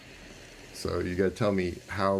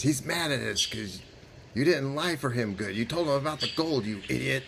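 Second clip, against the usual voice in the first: lightly voiced bickering goblin, pitched up; squabbling goblin; 3 semitones higher than usual. Goblin blaming another for the gold, squabbling. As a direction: scold a fellow goblin. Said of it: "they start to squabble amongst themselves".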